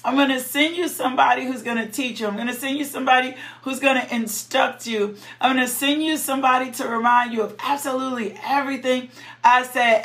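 casual, fast street-talk Jesus; paraphrasing Jesus. Retold or imitated. Preacher paraphrasing Jesus in John 14:26, casual and fast. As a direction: deliver Jesus' promise like a homie talking. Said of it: "I'm gonna make it sound like it should sound".

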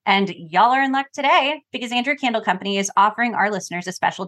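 polished podcast sponsor read. Real, not acted. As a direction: deliver a scripted host endorsement. Reads a sponsor ad.

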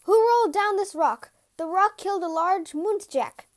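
loud, high call up a mountain; loud shout. A narrator's reading. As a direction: shout it out so it carries far. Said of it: "shouted in a large, loud voice".

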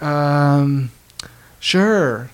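hesitant agreement with a pause; reluctant. Retold or imitated. Moviegoers asked to scoot over, reluctantly agreeing. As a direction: give in reluctantly, as if cornered. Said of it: "Like, kinda reluctantly".

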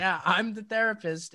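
put-on New York accent. Comedian answering doubtful patient, imitated New York accent. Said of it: "he talks just full New York".

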